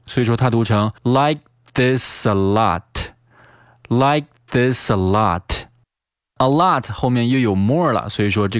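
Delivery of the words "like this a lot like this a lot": "this a lot" joined as "thi-sa-lot"; "like this a lot" slow and connected; linked reading. Shown as a demonstration. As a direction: slowly link s of "this" into "a". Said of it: "又进行了连读".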